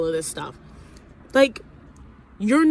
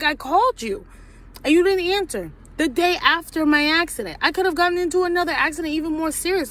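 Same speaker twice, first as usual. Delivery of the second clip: high, loud, fast retold yelling at husband; retold angry outburst; 10 semitones higher, 4 dB louder than usual. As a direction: throw the accusation at him, pitch climbing.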